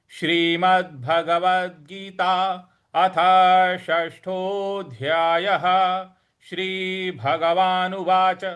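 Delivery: slow formal chanting of the opening; scripture recitation. Acted. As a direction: intone like a Gita reader. (धीमा शास्त्रीय पाठ)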